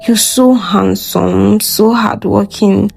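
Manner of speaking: soft, slow, half-whispered confession; soft seductive voice. Acted. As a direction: breathe it slowly to tempt him. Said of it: "she said in a soft voice".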